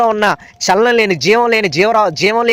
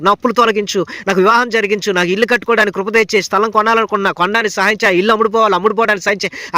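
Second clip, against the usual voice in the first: modelled petition; 3 semitones higher than usual. Shown as a demonstration. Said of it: "నీ కంఠస్వరం దేవుని దగ్గర వినబడాలి".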